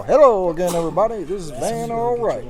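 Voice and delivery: a hint of a booming sports announcer; sportscaster impression. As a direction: lightly imitate the TV announcer's greeting. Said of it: "And he would always go".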